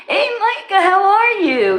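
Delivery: playful squeaky hello to a viewer; squeaky high greeting. Acted. Greeting a chatter by name.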